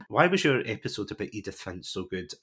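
normal talking voice

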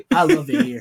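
high mock Asian accent. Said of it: "his Asian accent he puts on".

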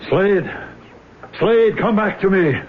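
high, desperate calls into the empty room; anguished calling out. Acted. Burns alone at night, calling out desperately to Slade. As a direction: cry out to a dead friend. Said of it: "All this shouting and screaming".

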